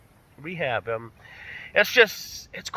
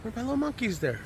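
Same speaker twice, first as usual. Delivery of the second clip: high, strained, broken by long pauses; emotional, holding it back; 6 semitones higher, 6 dB quieter than usual. Real, not acted. Vlogger looking for his monkeys, real choked-up emotion. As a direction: struggle to get the words out through emotion. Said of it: "Excuse me getting emotional".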